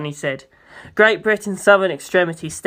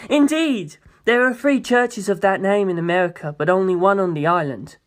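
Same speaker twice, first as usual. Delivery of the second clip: lightly voiced proud president. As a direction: talk down grandly like a president. President voice continues.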